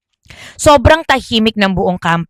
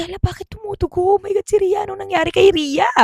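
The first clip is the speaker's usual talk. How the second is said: shocked panic; 9 semitones higher, 5 dB quieter, faster than usual. Acted. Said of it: "Gulat daw siya".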